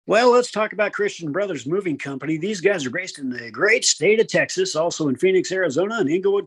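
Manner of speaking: smooth, upbeat ad read; radio announcer voice. Real, not acted. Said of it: "I sound like a radio announcer".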